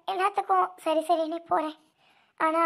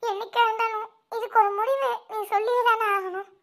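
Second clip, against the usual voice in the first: laughing through tears, higher; a broken laugh as she cries; bitter tearful laugh; 4 semitones higher than usual. Acted. Woman defying fate, laughing through her tears.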